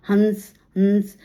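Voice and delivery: हंस drawn out slowly with a nasal hum; nasal sound demo. Shown as a demonstration. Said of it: "नाभ से भी आवाज आती है".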